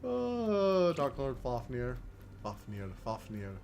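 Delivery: low, slow mock reverence; lightly solemn invocation. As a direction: call him with hushed awe.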